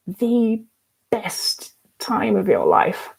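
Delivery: slow, voice catching; emotional. Real, not acted. Urging viewers in recovery, voice catching with emotion. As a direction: let the voice break a little, slowly. Moved, talking about recovery.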